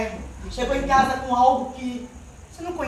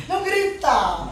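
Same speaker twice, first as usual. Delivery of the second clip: slow, laughing no-shouting plea; amused, slowed-down rebuke; slower than usual. Shown as a demonstration. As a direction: chuckle through the words.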